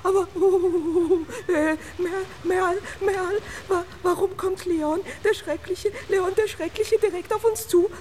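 high, stuttering fright; stammering panic. Acted. Doll panics at Leon approaching, high stammering fright.

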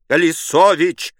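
terrified neighbour shouting his name at the door; frantic cry. Acted. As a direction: scream your name to be let in. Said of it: "вскричал силуэт".

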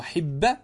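حب said as hibba with a pure i; pure kasra. Shown as a demonstration. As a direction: give حب a clear i vowel. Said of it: "الكسر الخالص".

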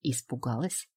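low hiss through a forced smile; hiss through teeth. Acted. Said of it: "Шиплю сквозь зубы через натянутую улыбку".

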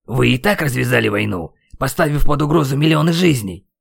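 exasperated accusation, rising; losing patience. A narrator's reading. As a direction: let the frustration build. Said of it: "не выдержал я". (возмущённый упрёк)

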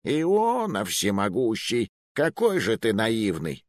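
slow, mocking disbelief; scoffing. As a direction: snort at his naivety. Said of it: "Муруа фыркнул".

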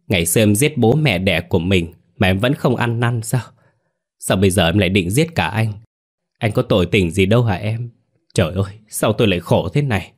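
a husband faking grief, begging his wife; trembling plea. Acted. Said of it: "Giọng nói run rẩy". (giả vờ van xin, giọng hơi run)

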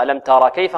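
"ترى" ending in a long aa before "كيف"; wrong added alif. Shown as a demonstration. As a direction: hold the vowel after the raa in "ترى". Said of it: "خطأ". ("ترى" بمد الراء خطأً)

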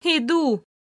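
calls toward the kitchen, lightly; shout. Acted. To Andrey in the kitchen, a called out reply. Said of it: "крикнула я".

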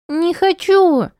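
put-on high, slow little girl's whine; child whining. Crying girl refusing her mother, high whine.

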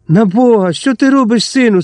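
high, anxious plea; alarmed cry. A narrator's reading. Priest grabbing Zalizniak's arm, alarmed high cry. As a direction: cry out to stop him. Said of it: "скрикнув батюшка".

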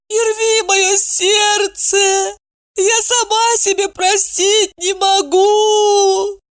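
high, slow wailing cry. A narrator's reading. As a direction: wail it out through tears. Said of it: "Евдокия завыла". (высокий медленный плач навзрыд)

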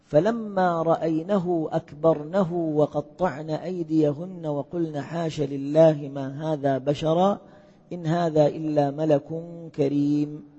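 slow, measured recitation of the verse; Quranic recitation. Acted. Teacher reciting the verse to the class, slow and measured. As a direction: intone the verse slowly and reverently.

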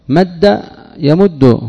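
مد يمد spoken very slowly, each syllable held; slow example. Shown as a demonstration. Teacher to students, slowly dictating مد يمد. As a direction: spell out مد يمد slowly for the class. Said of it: "يفعل".

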